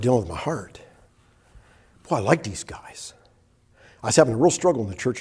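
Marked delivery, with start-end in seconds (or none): 2.1-3.1 unvoiced whisper to himself; whispered thought. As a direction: breathe it as a secret thought. Inner thought, whispered aside.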